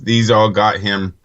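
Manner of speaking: ordinary delivery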